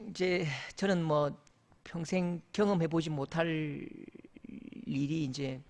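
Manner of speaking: usual speaking voice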